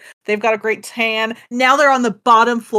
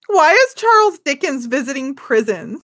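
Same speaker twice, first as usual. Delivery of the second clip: laughing question; 3 semitones higher than usual. Real, not acted. Co-host laughing at Dickens fact.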